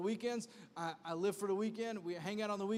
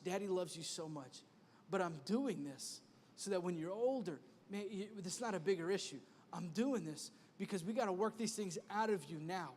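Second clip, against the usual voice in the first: put-on soft, gentle talk to his kids; hushed and loving, talking to his children; tender father; 4 semitones lower, 5 dB quieter than usual. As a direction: reassure the child quietly.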